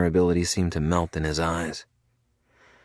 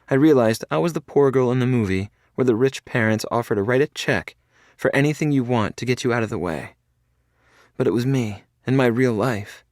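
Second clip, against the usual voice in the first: higher, louder, hurt and disbelieving; upset young woman; 7 semitones higher, 5 dB louder than usual. A narrator's reading. Felicity telling Cade of his father's offer, louder and hurt. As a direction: pour out the humiliation.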